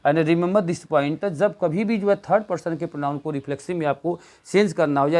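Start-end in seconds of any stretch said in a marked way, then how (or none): 0.0-1.2 very slow, each word weighted; slow teacher emphasis. Shown as a demonstration. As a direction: drive the point home slowly. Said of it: "याद रखिए".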